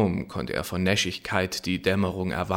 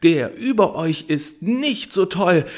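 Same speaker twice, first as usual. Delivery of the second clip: much higher, louder yell; shouting; 8 semitones higher, 6 dB louder than usual. Acted. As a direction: jeer it from above. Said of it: "schrie er". (lauter, höhnischer Ruf)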